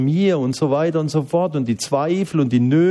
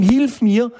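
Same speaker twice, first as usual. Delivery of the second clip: cry for help; 10 semitones higher, 3 dB louder than usual. Shown as a demonstration. Preacher voicing a cry for help.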